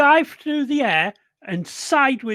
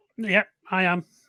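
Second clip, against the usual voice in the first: plain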